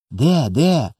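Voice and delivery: a hint of a curious child; lightly voiced eager child. A narrator's reading. Small boy searching the stars for what brother shows, eagerly curious.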